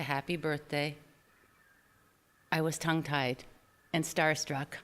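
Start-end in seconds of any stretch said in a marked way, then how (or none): 0.0-1.0 much softer, almost silent; just mouth the words; barely audible birthday wish. Retold or imitated. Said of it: "He barely mouthed the words".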